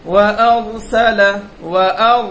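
ওয়া আর with a thick, full র, loud; heavy full ra. Shown as a demonstration. Teacher shows pupils the thick র sound. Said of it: "ওয়া আর মোটা করে বলতে হবে".

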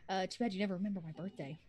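quick, soft muttered jab; muttered under breath. Acted. Sister muttering a birthday jab while riding the train. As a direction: grumble it half to yourself. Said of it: "She kind of whispers under her breath".

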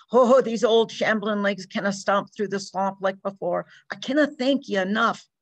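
lightly voiced Irish farmer; hint of an Irish brogue, thankful; grateful old Irishman. Mr O'Brien thanks the men.

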